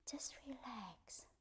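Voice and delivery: slow, whispered "Just relax"; soft self-talk. Shown as a demonstration. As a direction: breathe the words out like a note to yourself. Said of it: "very softly, gently say to yourself".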